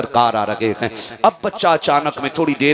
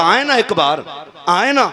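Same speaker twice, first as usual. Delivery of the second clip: longing call; 6 semitones higher than usual. Acted. Boy calling for beloved.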